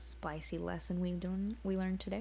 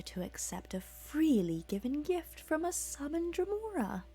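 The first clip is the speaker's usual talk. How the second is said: higher mocking demon voice; gloating Dremora; 6 semitones higher than usual. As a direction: taunt the dead boy. Demon mocks corpse.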